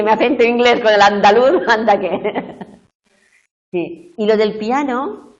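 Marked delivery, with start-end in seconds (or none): 0.0-2.1 lightly voiced student, louder; mock the student's lament, amused; retelling the student's complaint, lightly voiced; a hint of an Andalusian student. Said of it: "Y decía".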